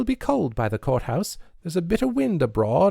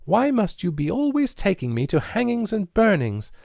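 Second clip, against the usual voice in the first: high, louder torrent of protest; words in a shower; 13 semitones higher, 4 dB louder than usual. A narrator's reading. Nancy railing at Mister Tibbet over burnings, high rushed outburst. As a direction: pour it out all at once. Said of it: "words falling from her in a shower".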